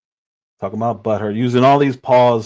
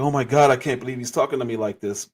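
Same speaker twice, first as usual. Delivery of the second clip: mock surprise. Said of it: "Kai's acting surprised".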